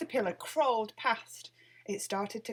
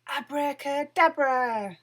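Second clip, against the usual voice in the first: slow, loud magic shout; shouted spell; 6 semitones higher, 8 dB louder, slower than usual. A narrator's reading. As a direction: bellow out the spell.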